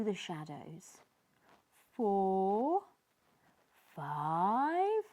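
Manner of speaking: hushed fish counting; nervous count. Acted. Sneezy counting in the wreck, tense. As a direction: count through the dark.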